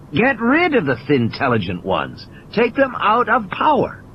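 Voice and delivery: lightly voiced mathematician, lecturing; a tired, wry lecturer holding forth; a hint of a pained, preachy Malcolm; Malcolm, weary. Malcolm's answer.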